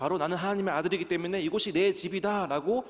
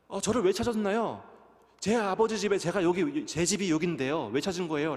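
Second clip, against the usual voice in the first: put-on puzzled child reply; 3 semitones higher, 4 dB louder than usual. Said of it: "라고 얘기를 하는 거예요".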